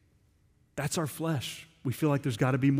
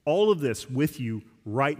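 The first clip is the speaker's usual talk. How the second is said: confident. Shown as a demonstration. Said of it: "You hear how confident he is of that?".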